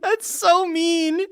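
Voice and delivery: high, drawn-out words through real laughter; cracking up, voice shooting high; amused shock. Real, not acted. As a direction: laugh out a slow, scandalized reaction. Listener laughs at the punchline.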